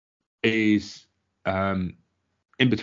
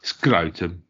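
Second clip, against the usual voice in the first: comic Brummie accent; Birmingham accent. Shown as a demonstration. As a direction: say it like a Brummie, for a laugh. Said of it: "funniest word to say in a Birmingham accent".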